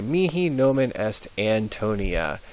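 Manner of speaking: classical Latin, Mihi nomen est Antonia with crisp vowels; Latin pronunciation. Shown as a demonstration. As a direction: read it as a model sentence. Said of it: "But remember, it's always".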